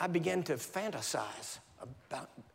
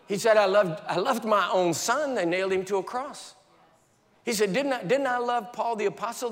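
higher, louder solemn pronouncement; God's voice; 5 semitones higher, 6 dB louder than usual. Retold or imitated. Preacher voicing God answering him, loud and solemn. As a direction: speak as God, firm and weighty.

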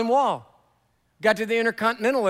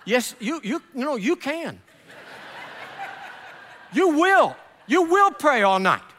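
laughing rebuttal; 6 semitones higher than usual. Real, not acted. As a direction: laugh it off, then shout it home. Preacher answers crowd, laughing, loud.

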